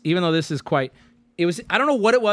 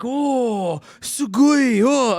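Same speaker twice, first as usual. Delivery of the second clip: excited; 6 semitones higher, 4 dB louder, much slower than usual. Retold or imitated. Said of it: "I was like".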